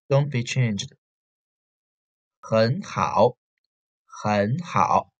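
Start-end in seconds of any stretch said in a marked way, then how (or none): 2.4-5.1 很好 with 很 rising, 好 dipping low; tone sandhi hen hao. Shown as a demonstration. Teacher repeating 很好 slowly for the class. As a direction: rise on 很, dip on 好. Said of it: "only the first syllable change the tone".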